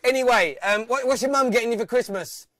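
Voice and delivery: laughing, teasing the prank caller. Real, not acted. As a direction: tease him through the laughter.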